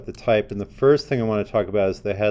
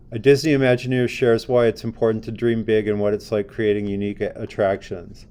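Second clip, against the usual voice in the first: monotonous. Shown as a demonstration. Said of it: "How did that sound when I just read it? Kind of monotonous".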